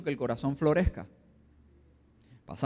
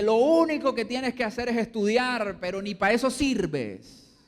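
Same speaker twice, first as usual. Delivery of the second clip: a touch louder, slow contemptuous reproach; harsh scolding; 4 semitones higher, 3 dB louder than usual. Acted. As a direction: scold the son, dragging out the insult. Parent scolding son over failed exam.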